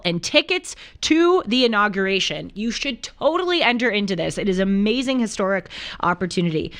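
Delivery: upbeat podcast promo read. Real, not acted. Host pitching an inauguration trip to listeners, ad read. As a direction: sell the prize to the listeners.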